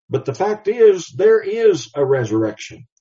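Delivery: a firm preacher's declaration; emphatic declaration. Real, not acted. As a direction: proclaim it as settled truth.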